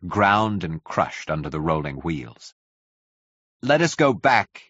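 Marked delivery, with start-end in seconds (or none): 3.6-4.6 slow, raised-pitch call; measured shout, pitched up. A narrator's reading. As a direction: call it out firmly over the din. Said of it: "he shouted".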